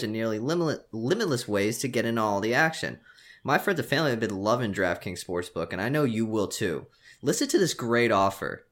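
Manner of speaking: upbeat sponsor read, pushing the offer. Acted. Host reads the sportsbook ad to listeners, upbeat ad read. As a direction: sell it like a podcast ad spot.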